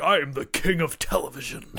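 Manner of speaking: a hint of a grand TV king; laughing mock boast. Host quoting a wrestler's boast, laughing. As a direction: quote it through a laugh.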